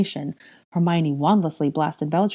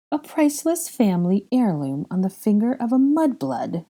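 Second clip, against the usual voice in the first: higher, incredulous scorn; mocking disbelief; derisive; 5 semitones higher than usual. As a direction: deride the captive, no real laugh. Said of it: "she laughed derisively".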